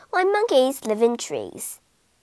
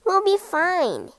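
reassuring; 6 semitones higher than usual. A narrator's reading. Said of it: "said the rat".

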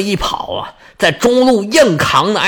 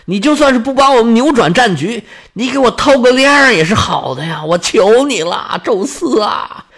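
pleading prayer. Acted. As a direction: beg Zeus close to tears. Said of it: "只能哀求宙斯了". (含泪哀求宙斯)

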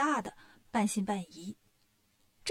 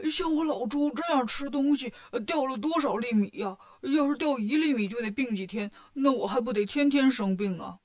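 startled Bajie voice. Acted. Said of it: "八戒吃惊地说".

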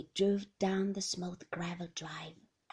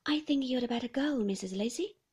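flustered nurse; 3 semitones higher, 5 dB louder than usual. Acted. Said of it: "rather pink and flustered".

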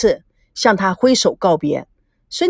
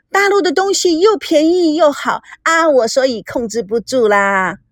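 higher-pitched opening, mildly gushing; chattering; 4 semitones higher than usual. Acted. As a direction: chatter excitedly about a shopping spree. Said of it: "吴梦玲叽叽喳喳地说". (略带兴奋地叽叽喳喳)

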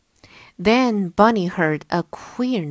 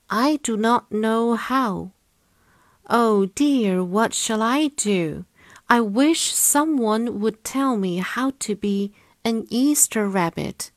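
higher-pitched little rabbit, wishing for help; worried white bunny; 4 semitones higher than usual. Acted. Bunny alone wishing someone would tell him how, worried. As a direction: fret aloud as a storybook bunny.

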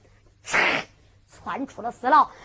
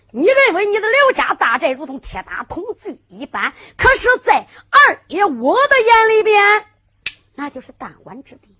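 raised, loud and scornful, slowing on the last words; defiant boast; 7 semitones higher, 8 dB louder than usual. Acted. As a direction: sneer down at the enemy. Zhang Kun defies Dong Batian. (轻蔑地高声叫阵)

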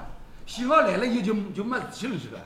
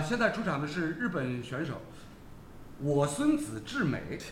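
slow, drawn-out joke announcement of the athlete's name; lightly voiced mock announcer, name slowed right down; mock athletics announcer; 4 semitones lower, 4 dB quieter, slower than usual. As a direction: spell the name out slowly like a stadium call. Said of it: "要想我看只名字， 我勿敢读".

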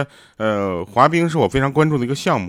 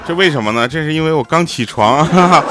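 hoarse voice; 4 dB louder than usual. Real, not acted. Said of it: "听到我的嗓子啊，又哑了啊".

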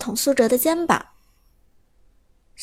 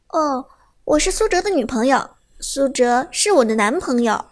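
cheerful. Acted. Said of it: "笑容满面地说出".

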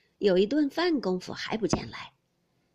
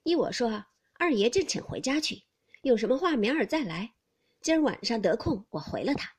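a maid's louder, cool dismissive reply; cool sneer; 5 dB louder than usual. Acted. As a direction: send him home with a faint sneer. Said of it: "那丫头冷笑了一笑". (带冷笑的丫头口吻)

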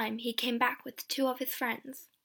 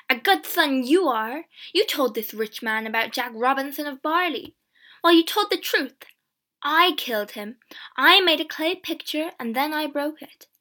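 loud, raised outburst; angry shouting; 3 semitones higher, 7 dB louder than usual. A narrator's reading. Mother turns on James for telling, angry shouting. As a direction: rail at him, hitting words hard. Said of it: "she began to shout at James".

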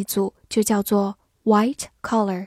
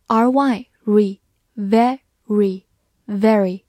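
slow, careful syllable drill; slow spelling; 3 dB louder, much slower than usual. Shown as a demonstration. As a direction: sound out each part slowly. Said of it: "spelling demo".

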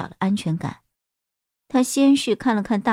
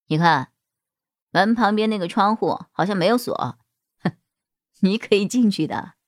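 calm man; 2 semitones lower than usual. Acted. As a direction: speak as the steady boss. Boss voiced in story.

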